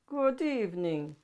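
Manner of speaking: a hint of a low, breathy monster. Herbert greeting the child, lightly voiced low breathiness. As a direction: breathe it gently like a shy beast. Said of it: "said a low, breathy voice".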